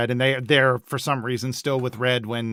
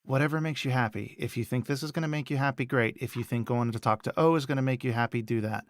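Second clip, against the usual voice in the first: softer acted fatherly comfort; reassuring dad; 6 dB quieter than usual. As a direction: gently give your daughter permission, softly. Dad reassuring his daughter.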